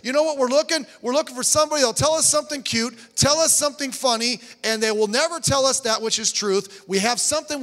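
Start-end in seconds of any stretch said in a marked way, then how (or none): 0.0-6.2 higher, louder and fast; heated preaching. Real, not acted. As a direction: fire it at the congregation. Preacher building to a rebuke.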